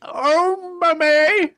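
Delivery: put-on high excited child; twin crying out. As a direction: call out like an eager small boy. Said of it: "cried the first twin".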